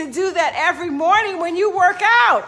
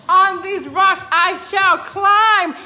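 declaring; 7 dB louder, slower than usual. Shown as a demonstration. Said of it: "But if you say".

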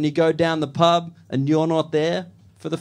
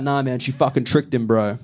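mock bro voice; 6 semitones lower than usual. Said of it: "the boys get together like".

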